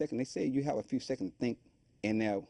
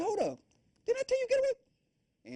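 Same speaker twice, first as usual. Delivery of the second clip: much higher, retold challenge, not a full shout; retold angry confrontation; 3 dB louder than usual. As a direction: throw it back at him like you did that night.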